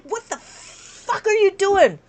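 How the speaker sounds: slow, drawn-out disbelief; incredulous. Retold or imitated. Teacher retelling her reaction to friendly numbers, slow and incredulous. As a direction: stretch out the outrage word by word. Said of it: "I'm like".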